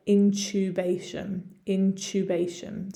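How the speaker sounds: British "intubation", in-CHOO-bay-shun; British accent. Shown as a demonstration. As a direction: say "intubation" the English way, TU as "chew". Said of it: "with my British accent".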